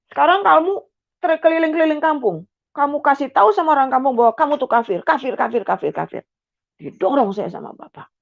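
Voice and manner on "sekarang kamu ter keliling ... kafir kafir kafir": high, raised condemnation; angry father. Retold or imitated. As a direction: denounce her with contempt. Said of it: "ayah menghina anak". (ayah mengecam dengan marah)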